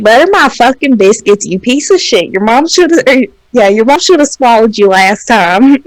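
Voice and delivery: lightly mocked own southern twang; southern accent. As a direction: let a southern accent roll through a retold insult. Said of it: "There's the accent".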